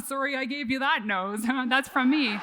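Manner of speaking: laughing through a mock dad apology. Dad apologizing for her nose, laughing. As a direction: chuckle the words out as dad. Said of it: "He's like".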